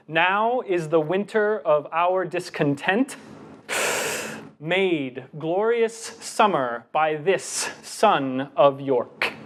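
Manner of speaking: slow measured Shakespeare with a breath mid-line; slow recital. Shown as a demonstration. Showing the audience a recital that breaks the line wrongly. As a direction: draw it out and breathe in the wrong spot. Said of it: "I left off at the seventh syllable and I took a breath".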